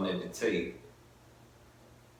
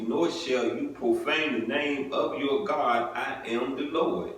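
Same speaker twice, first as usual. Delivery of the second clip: measured formal Bible reading; scripture reading. Acted. Preacher reading scripture to the congregation, measured and solemn. Reads Leviticus aloud.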